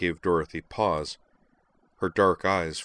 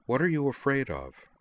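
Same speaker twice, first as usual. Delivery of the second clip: higher, weary after a sigh; exasperated repeat; 7 semitones higher than usual. Acted. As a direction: ask it again, tired and pleading. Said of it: "repeated her previous question".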